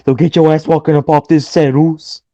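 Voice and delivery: mock trash talk like The Miz; hammed-up wrestling promo; Miz impression. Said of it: "that is the closest thing to The Miz".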